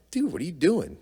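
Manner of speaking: shoved by your brother, protest in shock; shocked outburst. Retold or imitated. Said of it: "and I'm like".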